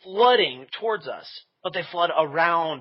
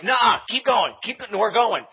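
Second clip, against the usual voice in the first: raised, higher-pitched insistence; mock-urgent, louder push to keep moving; urgent retold command; 6 semitones higher, 5 dB louder, slower than usual. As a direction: cut off an objection and push onward. Retold argument while fleeing.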